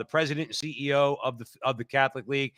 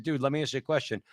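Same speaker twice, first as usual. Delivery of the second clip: quietly asking; 5 dB quieter, faster than usual. Retold or imitated. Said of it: "I asked him very quietly".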